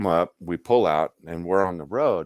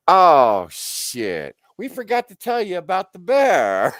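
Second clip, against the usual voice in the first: loud, high "oh" that sinks, then a high yell; hammed-up, high-pitched dismay; mock alarm; 13 semitones higher, 11 dB louder, slower than usual. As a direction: cry out the sudden realisation. Retold alarmed realisation.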